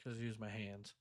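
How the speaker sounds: tossed off under the breath; quiet aside. Real, not acted. Repeating the line twice.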